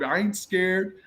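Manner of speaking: channel Bernie Mac, cracking up; Bernie Mac impression. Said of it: "He's doing Bernie Mac".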